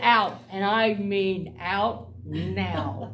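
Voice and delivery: loud "Out", then slow and firm; retold order. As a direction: snap the word out, then spell it out slowly. Throwing the men out.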